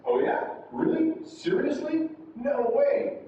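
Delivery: high-pitched, surprised reactions; showing surprise. Shown as a demonstration. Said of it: "it's showing surprise".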